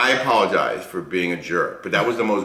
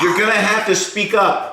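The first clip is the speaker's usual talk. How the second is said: calling out; 14 semitones higher, 5 dB louder than usual. Pretend. Caller can't hear the whisper.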